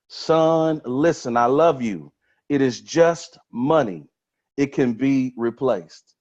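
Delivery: measured retold reassurance, slowing down; reassuring father. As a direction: let each statement land slowly, as a father would. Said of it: "He reassured his son".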